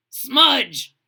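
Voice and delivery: loud called name; calling out. Acted. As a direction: hail him warmly. Large Marge calls out.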